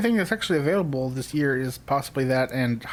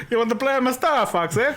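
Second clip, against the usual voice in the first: laughing mock voice; 7 semitones higher than usual. Teasing Miyamoto voice with laughter.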